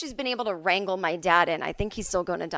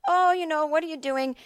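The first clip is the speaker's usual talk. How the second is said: reluctant dad; 7 semitones higher than usual. Retold or imitated. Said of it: "doesn't like to be mean to people".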